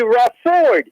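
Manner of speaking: Rafford said slowly, stress on the second syllable, FORD; wrong stress on name. Shown as a demonstration. Host mispronounces the caller's name to make a point, stressed end. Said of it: "If I put the accent on Rayford, on the Ford".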